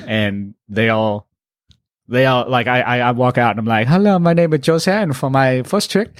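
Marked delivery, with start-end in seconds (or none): 3.9-6.1 put-on Asian accent. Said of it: "I started doing the accent".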